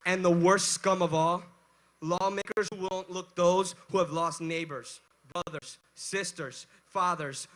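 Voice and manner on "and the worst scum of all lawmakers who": roaring rallying speech. Real, not acted. Rally speaker shouting to crowd.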